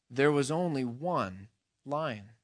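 slow, measured lion, lightly voiced; a hint of solemn authority, drawn out; lion's voice. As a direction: state it slowly as the great unseen lion. Lion corrects the boy in story.

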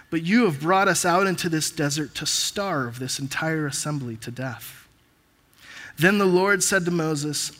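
measured public Bible reading, each verse falling at the end; scripture reading. Real, not acted. Preacher reads Exodus to the church, scripture reading. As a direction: read the passage out clearly to a congregation.

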